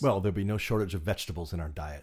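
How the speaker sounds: quick patter in a mock British Isles accent; put-on British Isles accent. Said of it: "pass as our requisite, uh, nationalities".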